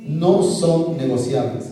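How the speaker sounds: "No son negociables" drawn out slowly; slow emphasis. Real, not acted. Speaker driving a principle home to youth, slow emphasis.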